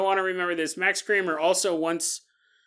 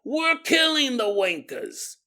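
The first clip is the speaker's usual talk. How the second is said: mock British yell; 8 semitones higher, slower than usual. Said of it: "someone yelling down the street going".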